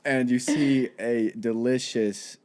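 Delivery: mildly mournful scene setting; a touch of sadness. Pretend. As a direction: let the description drift gently downcast. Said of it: "I didn't mean to get sad".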